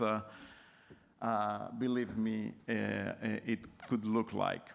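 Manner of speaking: stuffy nasal voice from a cold. Real, not acted. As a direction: talk through a blocked nose. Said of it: "sorry for my nasal voice".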